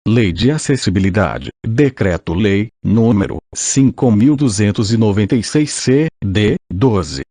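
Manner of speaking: robotic synthesized voice reading. Real, not acted. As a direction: computer text-to-speech voice. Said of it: "com voz sintetizada".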